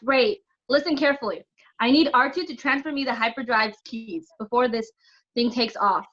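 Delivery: high, loud battle instructions; urgent orders. Acted. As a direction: call out orders under pressure. Urgent battle orders over the noise.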